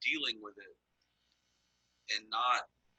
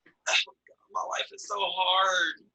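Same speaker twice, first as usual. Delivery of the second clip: mock whining, drawn-out high wail; hammed-up moan of self-pity, pitched high; whiny complaining; 8 semitones higher, 9 dB louder, slower than usual. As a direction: wallow in it, high and slow. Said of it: "like, complaining would be like".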